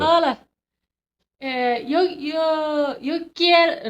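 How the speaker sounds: high, searching Irish attempt; Irish accent. Shown as a demonstration. Trying Spanish for co-host, unsure Irish accent. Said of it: "I need to get into my Irish accent".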